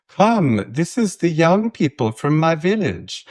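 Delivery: high, bright Swedish lilt; Swedish accent. Retold or imitated. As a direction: welcome them in a Swedish accent. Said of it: "that was a verging on an accent".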